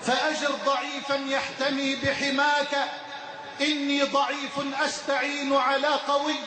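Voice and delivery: steady devotional recitation of verse; recited prayer poem. Acted. Preacher reciting a poem of repentance to the congregation, devotional. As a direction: recite the supplication as a humble plea.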